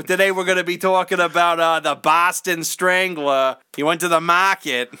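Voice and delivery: badly faked Boston accent; broad, silly Boston vowels; put-on Boston accent. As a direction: introduce it in a hammed-up Boston accent. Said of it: "I can't do an accent".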